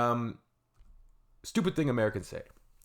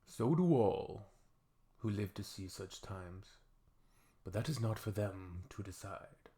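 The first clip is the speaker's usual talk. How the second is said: Gandalf quote; 5 dB quieter than usual. Pretend. Quoting Gandalf from Lord of the Rings.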